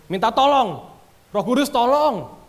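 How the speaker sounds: high, loud mock plea, stretched at the end; calling for help. Preacher acting out someone tempted begging the Holy Spirit, calling for help. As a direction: cry out for help, hammed-up.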